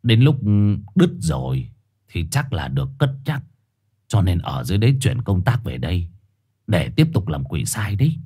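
low, soft gruff voice; old street dog telling gossip. Acted. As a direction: explain it matter-of-factly, hushed.

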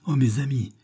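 high plea, building to a shout; crying out in supplication. A narrator's reading. Principal on his knees begging the crowd, crying out. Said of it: "criait-il".

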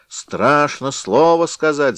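high slow loud bleat; hammed-up ram bleat. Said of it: "заблеяла баранья голова".

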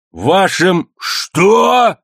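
can't believe his ears, dragged out; wild disbelief. A narrator's reading. Cook stunned at being called a friend, slow wild disbelief. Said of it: "спросил дико друг".

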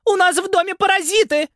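очень высокий громкий визг; в ужасе зовёт мужа; испуганный вопль. A narrator's reading. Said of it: "завопила женщина". (женщина в ужасе вопит, увидев мышь)

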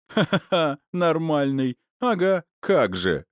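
high-pitched scoffing with an acted ha-ha-ha; laughing. A narrator's reading. Friend doubled over laughing at the narrator's question, laughing disbelief. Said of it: "согнулся в приступе хохота".

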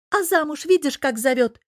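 put-on high girlish grumbling; high-pitched indignant jab; unrelenting complaint. A narrator's reading. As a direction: keep nagging, high and aggrieved. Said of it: "не унималась зараза".

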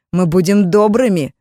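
loud falsely kind promise; mock-friendly shout. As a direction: call out a sweet threat. Mages promise kindness.

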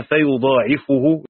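فيضاعفه said slowly as fa-yuḍāʿifuhu with a long ā and no doubling; the majority reading. Shown as a demonstration. Teacher slowly reciting the majority reading of فيضاعفه. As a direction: draw out فيضاعفه with a long ā and end in fuhu. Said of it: "مخففا وضم الفاء".

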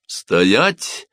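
understated command to halt. A narrator's reading. Officer halting his soldiers, commanding. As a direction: give a mild one-word order. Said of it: "скомандовал он солдатам".

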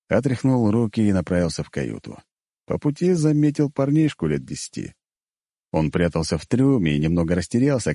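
usual speaking voice

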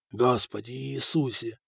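hushed, low-key prayer to himself; softly muttered oath; whispered. A narrator's reading. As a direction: murmur it softly under the breath. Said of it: "шептал Фока обкусанными губами".

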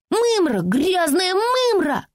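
desperate shout near tears. Acted. Francie yelling helplessly at the girl, close to tears. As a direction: scream it out on the verge of tears. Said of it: "выкрикнула Фрэнси и расплакалась".

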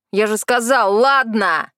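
лёгкий наигранный крик «ладно!», чуть громче; раздражённо повтори «ладно!», с нажимом в конце; сердитый окрик. Acted. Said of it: "Теперь он наорал на лес". («ладно!» с досадой и падением в конце)

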